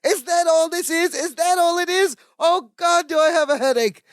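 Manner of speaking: high-pitched exasperated rant, mock screaming; Balki. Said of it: "he's screaming himself into a headache".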